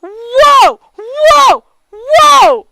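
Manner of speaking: loud, high falling whoas; real amazed whoa, whoa, whoa; repeated shocked whoas. Real, not acted. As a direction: keep gasping whoa at the twist.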